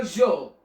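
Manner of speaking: je said with a soft French zh; soft g sound. Shown as a demonstration. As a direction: say je as "zhuh". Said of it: "we should pronounce the letter".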